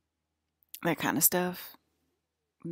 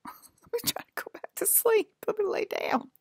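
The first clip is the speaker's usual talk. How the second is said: whispered mumbling to oneself; sleepy whisper. Retold or imitated. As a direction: whisper it as if settling back to sleep. Acting out settling back to sleep.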